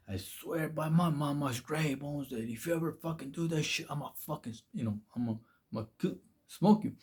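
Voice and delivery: Chico quietly threatening the bully, a hint of menace; quiet threat.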